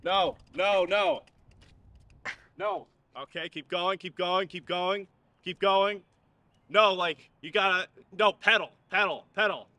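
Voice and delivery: frantic yelled coaching; nagging backseat driver. Acted. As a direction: shout orders at a wobbling rider. Yelling bike instructions from behind.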